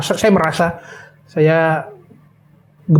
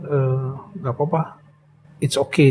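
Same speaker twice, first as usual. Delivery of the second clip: soft quote; 6 dB quieter than usual. Retold or imitated. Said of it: "Dia katakan".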